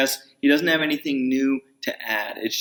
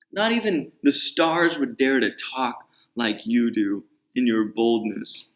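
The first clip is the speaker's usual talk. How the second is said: furious Bildad; 3 semitones higher than usual. Retold or imitated. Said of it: "imagine Bildad being furious".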